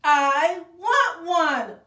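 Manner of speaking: drawn-out, loud wail, pitched high; child yelling. Acted. Child yelling at her mother for a cookie, drawn-out loud wail. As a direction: stretch it into a slow howling demand. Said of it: "Sophie yelled".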